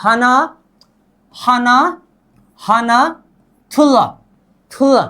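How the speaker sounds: clearly separated words for learners to echo; repeat-after-me drill. Shown as a demonstration. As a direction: say each Korean number on its own, evenly. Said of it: "अब मेरे साथ बोलिए".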